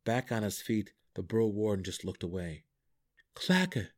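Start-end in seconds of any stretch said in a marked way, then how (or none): 3.3-3.9 high-pitched, tentative address; questioning call. A narrator's reading. Drizzt addresses the Hook horror, questioning call. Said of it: "asked the Hook horror".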